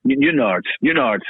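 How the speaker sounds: "Newtonards" run together as NOO-nards, falling; local pronunciation. Shown as a demonstration. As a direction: say "Newtonards" the way a local from County Down does. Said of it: "a town called Newtonards".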